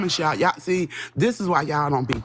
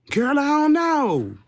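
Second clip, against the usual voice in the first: higher and slow, mock helpless; high, drawn-out shrug; 8 semitones higher, 3 dB louder, slower than usual. Streamer plays dumb to chat, high and slow. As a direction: stretch it out like you're clueless.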